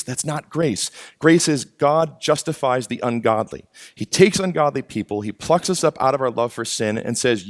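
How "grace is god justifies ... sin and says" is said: ordinary talk, nothing marked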